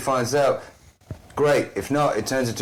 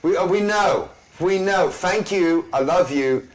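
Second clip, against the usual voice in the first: exasperated high voice; 7 semitones higher than usual. Acted. Character scolds hag, comic high voice.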